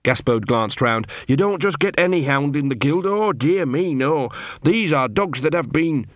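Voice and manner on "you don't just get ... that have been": lightly voiced scruffy dog, pitched up in places; nervous dog. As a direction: explain the guild with mild awe. Gaspode explains nervously.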